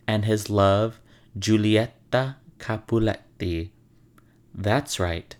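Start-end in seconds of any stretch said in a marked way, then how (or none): 1.4-3.7 Italian accent. Shown as a demonstration. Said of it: "in my best Italian accent".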